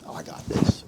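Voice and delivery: cocky thought, breathed out under the voice; whispered inner thought. Retold or imitated. Man recalling his real estate start, whispering to himself. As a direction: whisper it to yourself, overconfident.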